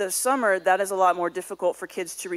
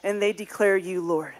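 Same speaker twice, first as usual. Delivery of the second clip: prayer. Acted. Closing prayer over the kids.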